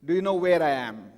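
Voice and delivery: lightly mock a shout down to someone; retold yell. Lost balloonist to the guy on the ground, mild retold yell. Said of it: "yells out to the guy on the ground".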